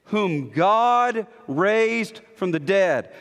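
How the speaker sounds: slow, with "God" weighted heavily; stress on God. Shown as a demonstration. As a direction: lean long and hard on "God". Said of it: "Emphatic here is God".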